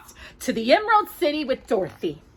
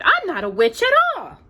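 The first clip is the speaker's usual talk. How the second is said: put-on higher girlish reply; Dorothy voice; 8 semitones higher than usual. Dorothy answering Glinda, lightly girlish. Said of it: "Dorothy answered".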